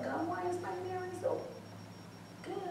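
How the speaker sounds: high, fast mock plea to God. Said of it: "I'd be like".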